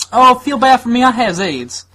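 hammed-up self-pity; mock whiny complainer. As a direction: whimper for sympathy. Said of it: "being like".

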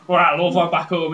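a hint of a northern miner's accent; lightly voiced northern husband home from the pit. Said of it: "turns up all covered in soot and goes".

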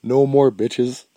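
a lightly voiced ranting forum member, slow and heavy; mock rant. Recalling a banned member's rant about women, mock ranting. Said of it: "he went off on this rant".

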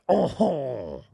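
kid's mock-French "oh"; exaggerated French accent exclamation. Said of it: "when you would do a French accent".

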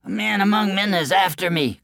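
squealing coward; frightened cry. Acted. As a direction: cry out in fear. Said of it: "cried the boaster".

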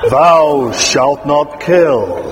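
slow booming movie voice of God. Shown as a demonstration. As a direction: intone it like God in an epic film. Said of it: "that kind of Cecil B. DeMille movie sort of effect".

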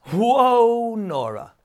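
startled call of her name; startled cry. A narrator's reading. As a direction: jump back and cry out in surprise. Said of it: "cried Jamie".

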